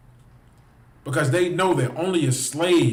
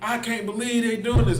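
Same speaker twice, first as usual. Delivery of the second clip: high, mocking put-on shock; mock surprise; 6 semitones higher than usual. Mocking a surprised onlooker, high mock disbelief. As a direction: mimic her fake disbelief, pitched up. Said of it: "who's acting surprised".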